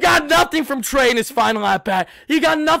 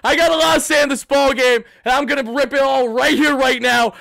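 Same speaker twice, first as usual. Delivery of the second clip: ordinary talk, nothing marked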